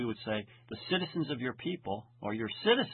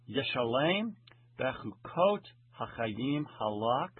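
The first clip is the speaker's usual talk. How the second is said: slow, deliberate Hebrew recitation; Hebrew verse reading; 3 dB louder than usual. Acted. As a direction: read the verse out slowly, phrase by phrase. Reads the Hebrew verse aloud.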